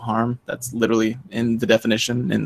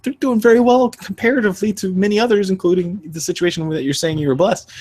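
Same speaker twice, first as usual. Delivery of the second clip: pointed retort; 9 semitones higher than usual. Retold or imitated. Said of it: "what I was thinking in the moment".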